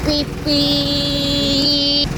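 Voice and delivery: long, level vocal beeps; imitated beep. Filmer beeping along with the buses, imitated horn beep. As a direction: hold each beep on one steady note.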